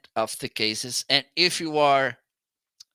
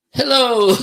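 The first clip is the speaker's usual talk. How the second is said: squeaky hello; 11 semitones higher, 11 dB louder than usual. Real, not acted. Playful mic test greeting.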